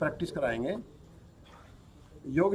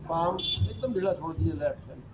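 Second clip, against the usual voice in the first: unhurried yoga nidra instruction, softer than normal talk; guided relaxation; 7 dB quieter than usual. Real, not acted. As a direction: guide them gently through relaxing each body part, with long pauses. (योग निद्रा का शांत निर्देश)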